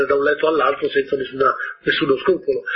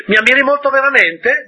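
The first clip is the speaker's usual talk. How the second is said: higher, louder pleading for praise; vain man; 9 semitones higher, 5 dB louder than usual. Acted. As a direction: beg to be admired.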